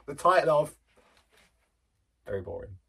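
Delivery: giggling through the words, loud; fighting back laughter as you read; reading a review out between giggles; laughing while reading. Real, not acted.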